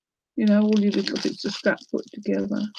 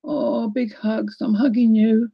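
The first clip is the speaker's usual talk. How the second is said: tender comfort; 3 semitones higher, slower than usual. Real, not acted. Comforts a grieving viewer.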